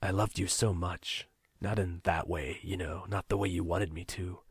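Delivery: calm, bland. Acted. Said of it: "His voice was calm, bland".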